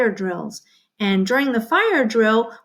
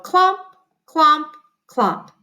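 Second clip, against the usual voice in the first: boots clomping; 5 semitones higher, 4 dB louder, slower than usual. Shown as a demonstration. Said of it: "Your turn".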